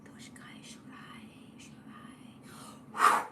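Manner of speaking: slow strange chant sinking into a whisper; channeled light language. Acted. Reader channeling for Deb, a fading whispered chant. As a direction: let the foreign syllables drift down until only breath is left.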